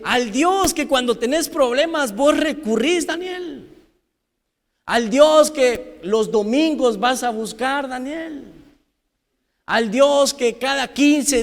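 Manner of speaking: high, calling mock quote; mock king's question. Preacher parodies what Darío did not say, high mock call. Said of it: "Darío no le dice a Daniel".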